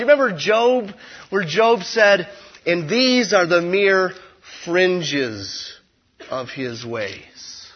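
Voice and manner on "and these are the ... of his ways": awed, fading. Acted. Quoting Job, slowing and fading.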